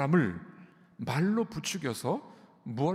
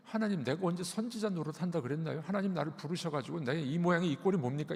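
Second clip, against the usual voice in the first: mild lament. Retold or imitated. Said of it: "이렇게 탄식하는 거예요".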